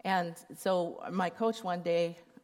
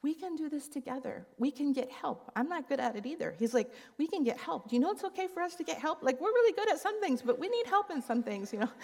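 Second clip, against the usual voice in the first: gracious comfort; 8 semitones higher than usual. Retold or imitated. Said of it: "he was like".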